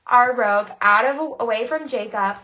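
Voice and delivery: loud, slow, fired-up retelling of the shove; emphatic retelling. Retold or imitated. Friend recounting shoving a man off, loud and slow. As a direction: punch out each step of the shove.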